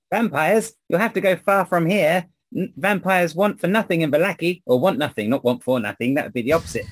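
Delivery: put-on high, loud old woman voice. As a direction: play a fussy old seamstress.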